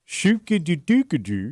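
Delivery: Swedish-ish gibberish. Pretend. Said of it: "Go ahead, try it".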